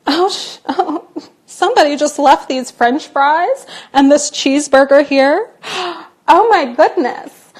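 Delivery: laughing gasp at free food; giggle, gasp, then marvel at the find; delighted surprise. Retold or imitated. American finding abandoned fries, in delighted surprise. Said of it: "An American's gonna be like".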